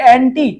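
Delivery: অ্যান্টি with a clear final টি; stress on টি. Shown as a demonstration. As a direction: land firmly on the টি of অ্যান্টি. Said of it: "টিউ বেশি উচ্চারণ হচ্ছে". (অ্যান্টি-র শেষে টি-তে জোর)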